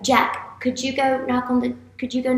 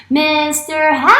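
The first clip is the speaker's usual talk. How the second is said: wake-up call; 4 semitones higher, 3 dB louder than usual. Pretend. Teacher wakes the sleeping puppet, calling out. Let's wake Mister Happy up.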